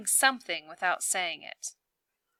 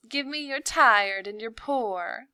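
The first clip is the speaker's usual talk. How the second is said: squealing; 4 semitones higher, 5 dB louder than usual. A narrator's reading. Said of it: "squeals Sabine".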